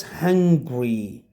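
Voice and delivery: "hungry" in two syllables, HUNG-gree; contrasting pronunciation. Shown as a demonstration. Teacher contrasts it with the country's name, "hungry" in two syllables. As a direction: run g straight into r in "hungry", no vowel between. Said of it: "But it is not".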